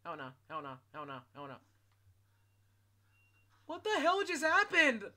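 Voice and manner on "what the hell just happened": stunned disbelief. Real, not acted. Stunned after fight.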